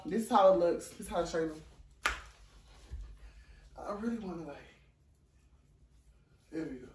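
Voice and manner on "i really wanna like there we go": whispered aside. Real, not acted. Adjusting outfit, whispering.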